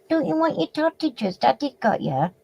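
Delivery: high, gentle coaxing voice. Real, not acted. Talking to a small child.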